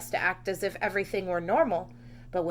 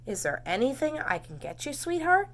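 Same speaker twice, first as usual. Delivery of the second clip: gentle father; 5 semitones higher than usual. Acted. Father comforting daughter.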